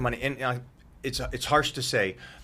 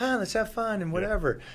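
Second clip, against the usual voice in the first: very high, put-on girlish voice; 9 semitones higher than usual. Describing girls dated before, quoting them in a put-on girl voice. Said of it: "Threw my girl voice in there".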